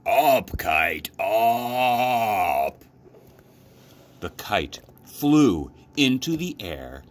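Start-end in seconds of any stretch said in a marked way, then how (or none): 0.0-2.8 louder, called-out cry; mild storybook shout. A narrator's reading. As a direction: shout it up at the kite. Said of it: "He shouted".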